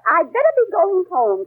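lightly voiced heroine, read from the paper; a hint of a nervous young woman; mildly dramatic novel reading; reading Pamela's line. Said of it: "Pamela said".

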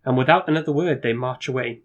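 measured storyteller reading; gamebook narration. A narrator's reading. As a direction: set the scene for the player.

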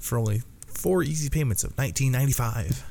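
infomercial price pitch; hard sell ad. Pretend. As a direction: pitch the price like late-night TV. Continuing mock infomercial.

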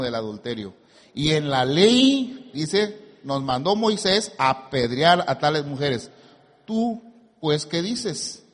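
phrase-by-phrase pulpit reading with pauses; emphatic teaching read of a Bible passage; scripture reading. Acted. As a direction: read it out deliberately, checking listeners follow.

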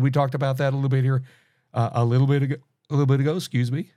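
talking through hiccups; hiccuping. Real, not acted. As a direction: hiccups breaking the words. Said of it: "I'm hiccuping here".

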